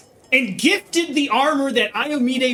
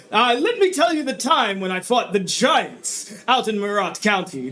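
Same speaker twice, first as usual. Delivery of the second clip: booming baron. Acted. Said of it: "his voice deep and booming".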